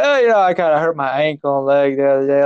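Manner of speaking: mock sheepish excuse; hammed-up evasive mumbling to a rescuer; making excuses. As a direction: play down the embarrassment with a lame excuse. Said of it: "I started making excuses".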